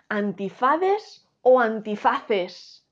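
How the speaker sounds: "antifades" y "antifaces" lentos, por sílabas; contrapón "antifades" y "antifaces" alargándolos; comparación didáctica. Shown as a demonstration. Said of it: "Hacemos su plural". ("antifades" frente a "antifaces", marcando los finales)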